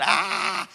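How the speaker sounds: imitated frightened cry; mock scream. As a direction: let out a half-hearted "ah" of panic. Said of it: "They screamed".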